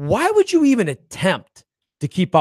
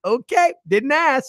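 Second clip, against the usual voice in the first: sarcastic; 9 semitones higher, slower than usual. Retold or imitated. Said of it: "we're like".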